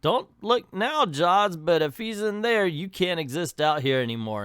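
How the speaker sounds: lightly acted taunt, starting high; Venkman. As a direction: needle the monster, a touch hammed-up. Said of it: "Venkman looks at the land shark".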